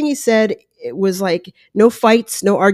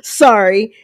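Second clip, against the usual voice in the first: imitating a sheepish laugh; 3 semitones higher, 4 dB louder than usual. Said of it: "kinda looks down and laughs and goes".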